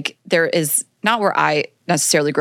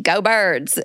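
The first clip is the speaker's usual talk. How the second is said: Delco Philly accent. Shown as a demonstration. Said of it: "it's got this".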